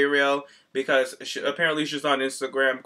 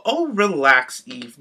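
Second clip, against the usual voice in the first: dismissive; 5 dB louder, much slower than usual. Retold or imitated. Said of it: "So that's when I put".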